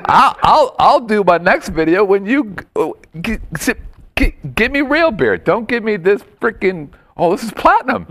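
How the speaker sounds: high, pushy supervisor rant; mock angry boss. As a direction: play the demanding boss griping about cheap beer. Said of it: "I'm like".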